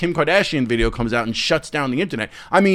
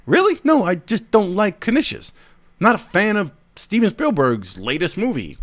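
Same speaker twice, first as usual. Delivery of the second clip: mock disbelief; 5 semitones higher than usual. Mock reply to accuser.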